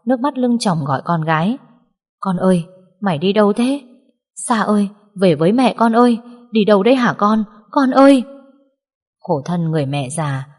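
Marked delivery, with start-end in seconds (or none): 2.2-8.2 building from pleading to a high loud cry; tearful calling out. Acted. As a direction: call after the daughter, crying, rising to a scream. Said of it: "khóc lóc chạy theo sau". (mẹ khóc gọi con, càng lúc càng gào to)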